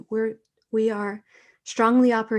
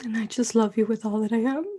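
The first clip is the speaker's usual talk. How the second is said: tearful. Real, not acted. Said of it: "I didn't realize I was gonna cry".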